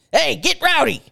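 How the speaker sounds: mock rallying shout; rousing call. Voicing owner's rousing text.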